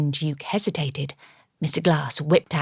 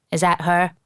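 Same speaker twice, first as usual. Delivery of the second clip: put-on Cyclops-like accent; 4 dB louder than usual. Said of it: "he asked in an accent similar to Cyclops".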